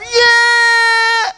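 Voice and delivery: high gleeful yell; cheering whoop; joyful whoop. Retold or imitated. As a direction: whoop with delight on the board. He's cracking up.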